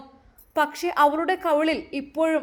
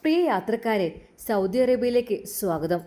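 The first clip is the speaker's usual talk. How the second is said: small voice announcement; 4 semitones lower than usual. Acted. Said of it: "ചെറിയൊരു ശബ്ദത്തിൽ".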